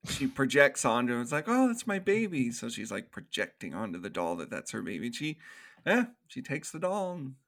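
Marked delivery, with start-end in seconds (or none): 1.5-2.5 retold doting mother. Voicing mother claiming the doll.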